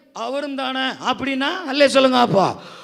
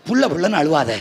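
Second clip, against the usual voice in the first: normal talking voice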